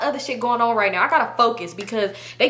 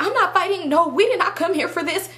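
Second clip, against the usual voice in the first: high mimicked protest with a cracking voice; 7 semitones higher than usual. Friend refusing to fight, imitated cracking voice. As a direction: imitate a cracking, pitched-up objection. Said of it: "Voice cracking".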